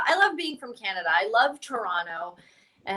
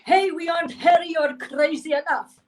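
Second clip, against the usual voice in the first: higher-pitched mock Italian-Arab accent; Italian-Arab caricature; 6 semitones higher than usual. Comic voices Italians and Arabs getting together, mock Mediterranean accent. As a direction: put on a hammy Italian-Arab voice. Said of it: "got together and said".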